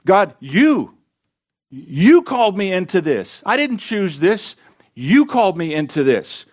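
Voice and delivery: high, emphatic YOU, then insistent; aggrieved prophet arguing with his Maker; accusing protest. Acted. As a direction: hammer the blame onto God in short bursts. Voicing Jeremiah's protest to God.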